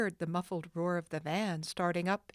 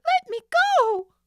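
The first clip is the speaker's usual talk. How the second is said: even higher, louder scream; more desperate scream; 13 dB louder than usual. Acted. Nancy struggles harder, screaming louder. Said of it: "struggling harder".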